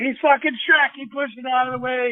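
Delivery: high-pitched imitation of an excited buddy; mock-delighted tattling; retold gleeful announcement. Retold buddy crowing to others.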